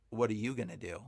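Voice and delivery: low, quiet demonic taunt; mock-menacing demon, dropped low and soft. Demon speaking through the man.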